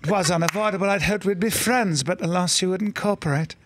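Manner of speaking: a genteel English villain apologizing; English aristocrat. Retold or imitated. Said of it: "English aristocrats".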